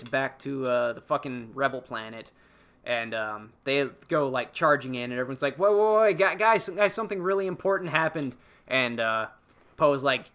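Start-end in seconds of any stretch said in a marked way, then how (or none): 5.6-8.4 higher, stammered attempt to halt someone; imitated urgent interruption. Rebel crew stopping Poe as he charges in, urgent. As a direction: cut in urgently, acting it out.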